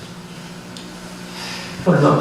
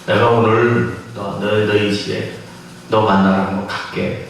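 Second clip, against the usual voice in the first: gentle Jesus voice; 5 semitones lower than usual. Retold or imitated. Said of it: "그 예수님이".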